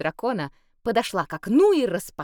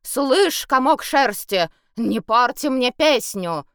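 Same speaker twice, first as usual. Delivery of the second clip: angry; 6 semitones higher, 6 dB louder, slower than usual. A narrator's reading. Bard scolds werewolf.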